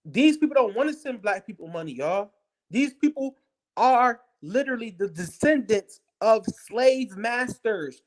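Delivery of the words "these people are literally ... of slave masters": slow, deliberate, word by word; slow and pointed, like explaining to a child; spelled out slowly. Shown as a demonstration. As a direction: lay each word down slowly. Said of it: "do I gotta say this any slower?".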